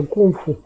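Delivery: "кунг-фу" said the Mandarin way, as "гунфу"; мандаринское произношение. Shown as a demonstration. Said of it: "На мандаринском это". («кунг-фу» по-мандарински, как «гунфу»)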